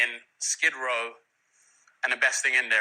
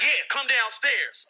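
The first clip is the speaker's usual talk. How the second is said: laughing gangster impression; 10 semitones higher, 4 dB louder, slower than usual. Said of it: "He's like".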